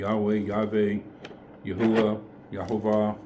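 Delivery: "Yahweh", "Yahuwah", "Yahovah" as alternative pronunciations of one name; variant name pronunciations. Shown as a demonstration. Teacher offering ways to pronounce His name, variant pronunciations. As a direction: list "Yahweh", "Yahuwah", "Yahovah", each sounded out separately. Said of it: "however you pronounce it".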